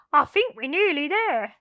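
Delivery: lightly voiced hopeful crook; eager thief. Len tunnelling into the heap, lightly voiced. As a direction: press on eagerly. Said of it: "said Len".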